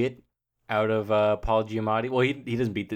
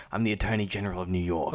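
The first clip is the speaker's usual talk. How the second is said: a hint of a New York accent on Attorney General; lightly put-on New York accent, as Giamatti; 2 semitones lower, faster than usual. Host imitates Giamatti playing New York's attorney general, New York accent. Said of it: "he puts on, like, a New York accent".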